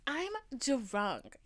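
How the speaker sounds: lightly imitated high drunk voice. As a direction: pitch it up like a tipsy announcement. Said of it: "my pitch is, like, three octaves higher".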